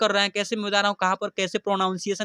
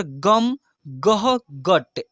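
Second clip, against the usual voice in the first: each word read in one go; quick reading; much slower than usual. Shown as a demonstration. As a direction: read the whole word at once, no spelling. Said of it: "अब इसको फटाफट से धड़ाधड़ पढ़ते कैसे". (एक बार में जल्दी पढ़ना)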